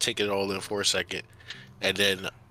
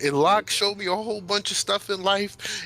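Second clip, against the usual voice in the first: excited blabbering; 9 semitones higher, 3 dB louder than usual. Acted. Midas telling parents about the Feywild, blabbering excitedly. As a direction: gush about every adventure in a high voice. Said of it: "blabbering on about".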